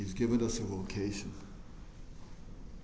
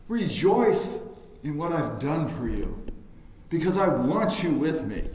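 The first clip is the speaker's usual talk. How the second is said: higher, brighter, lightly voiced call; joyful invitation; 4 semitones higher, 3 dB louder than usual. Preacher voicing God welcoming the congregation to the table, joyful. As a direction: invite them in gladly. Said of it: "he's saying".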